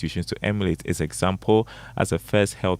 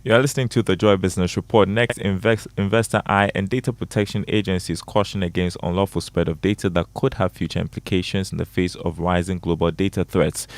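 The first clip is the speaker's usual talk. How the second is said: brisk radio news anchor; crisp bulletin, a little quick; news read. Acted.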